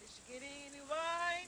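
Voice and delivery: calling out. Real, not acted. Call and response game.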